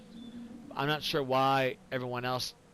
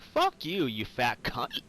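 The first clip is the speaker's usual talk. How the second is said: retold angry retort; slower than usual. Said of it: "I was like".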